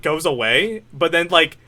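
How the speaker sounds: ordinary delivery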